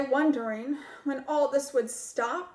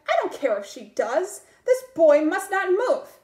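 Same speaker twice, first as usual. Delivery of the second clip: snapped, getting louder; snapping cat; 2 semitones higher, 6 dB louder than usual. Acted. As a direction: bark the order back. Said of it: "the other cat snapped".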